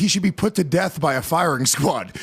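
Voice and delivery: laughing through the words; real laughter mid-sentence. Real, not acted. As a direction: crack up while joking. Joking about a firing squad.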